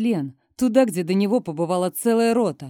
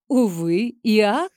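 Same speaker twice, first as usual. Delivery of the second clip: mock questioning; 3 dB louder, slower than usual. A narrator's reading. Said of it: "наигранно закатываю глаза".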